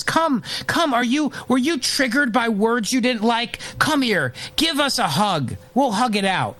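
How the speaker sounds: high, cooing mock voice of a coddling college official. Host mocking colleges that coddle students, cooing and high. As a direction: coo over them like a fussy nanny. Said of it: "a coddling culture that says".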